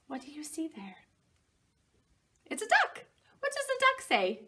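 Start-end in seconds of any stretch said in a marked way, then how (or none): 2.5-4.4 much higher, delighted question; wide-eyed wonder for a toddler; excited. Acted. Pointing out a picture to toddler.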